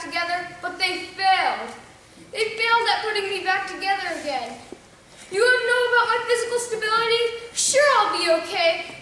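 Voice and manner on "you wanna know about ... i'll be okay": higher, rushed rant; agitated outburst. Acted. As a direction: burst out, pitched up and fast. Agitated outburst about his injuries.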